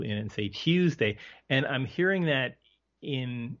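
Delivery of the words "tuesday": put-on over-enunciated American accent on the U of "Tuesday"; Brits' exaggerated American accent. Imitating Brits trying out American accents, exaggerated U in "Tuesday". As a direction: mimic a British try at an American "Tuesday". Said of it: "they exaggerate the, the U".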